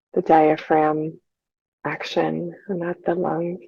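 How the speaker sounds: calm, unhurried meditation guide with long pauses; measured, soothing breathing instruction; guided meditation. Real, not acted. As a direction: lead listeners gently through their breathing, leaving space between phrases.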